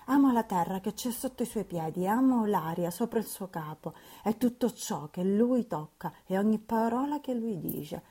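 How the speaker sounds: put-on lovestruck girl carried away; a lightly voiced ardent young lady; Catherine in rapture.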